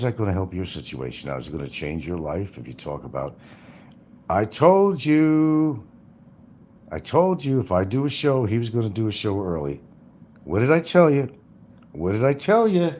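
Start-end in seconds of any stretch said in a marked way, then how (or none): 4.3-12.9 hammed-up gloating boast; mock gloating. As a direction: rub it in like a know-it-all. Mocking someone's boast.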